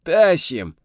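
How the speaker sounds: straining grunt under a load; effortful groan. A narrator's reading. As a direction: groan it, hauling firewood. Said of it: "закряхтел Володька".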